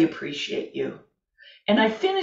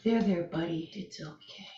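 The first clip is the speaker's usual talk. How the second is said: soothing; 5 dB quieter than usual. Pretend.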